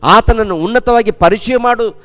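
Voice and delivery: full-force preaching. Acted. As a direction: proclaim each line like a rising altar call. Preacher urging praise of God. (ಏರುತ್ತಿರುವ ಜೋರಾದ ಉತ್ಸಾಹದ ಪ್ರವಚನ)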